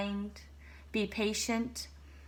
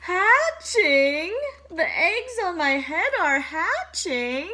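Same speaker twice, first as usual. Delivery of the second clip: louder, higher panicked disbelief; alarmed; 9 semitones higher, 10 dB louder, slower than usual. Acted. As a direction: sound aghast. Elephant alarmed.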